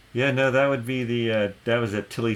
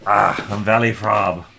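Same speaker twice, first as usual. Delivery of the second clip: booming welcome from the barkeep; innkeeper dwarf; 7 dB louder than usual. Acted. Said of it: "introduces themselves as".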